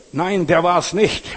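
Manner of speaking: loud, high, slow cry of protest; bursting out with it; shouted denial. Retold or imitated. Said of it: "schreit er".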